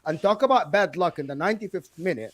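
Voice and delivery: indignant, talking over the objection; real heated argument; fired up. Real, not acted. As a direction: push back hard and keep the floor. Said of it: "he's, he's fired up".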